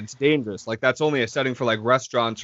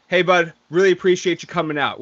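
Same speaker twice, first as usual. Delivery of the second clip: smart ass remark; 2 semitones higher than usual. Retold or imitated. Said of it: "smart ass remark".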